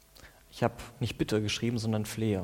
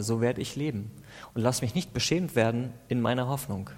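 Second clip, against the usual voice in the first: earnest, pleading psalm prayer; impassioned prayer reading; fervent prayer. Acted. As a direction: plead with God through the psalm.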